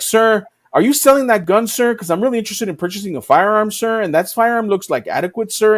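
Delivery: stiff, robot-like politeness; every line ends with sir, mechanically; robotic polite stranger. Retold or imitated. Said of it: "Why is he talking like that? Is this guy a fucking robot".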